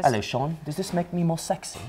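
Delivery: lightly put-on British; British accent. Host teasing Sean, British accent. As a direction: flirt jokingly in British.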